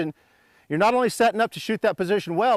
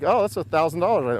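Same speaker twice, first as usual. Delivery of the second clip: casual, in no hurry at all; lazy, unbothered; 3 semitones lower than usual. Shown as a demonstration. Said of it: "you'd be like".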